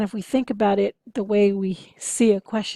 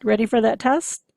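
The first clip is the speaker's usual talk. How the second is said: rhetorical teacher question; 5 dB louder than usual. Retold or imitated. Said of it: "when a professor asks".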